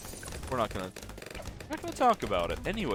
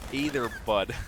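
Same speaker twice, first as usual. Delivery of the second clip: brief mock Canadian hoser greeting; hoser accent. Streamer joking with chat, mock hoser accent. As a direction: toss in a stereotyped Canadian accent.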